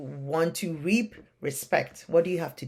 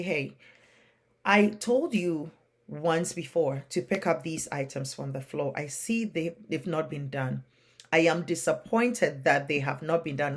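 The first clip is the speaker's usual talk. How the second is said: disappointed but steady, no yelling; calm firm parent. Shown as a demonstration. Parent calmly telling child the items are still down, firm and calm. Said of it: "Instead of yelling, you want to come back and say".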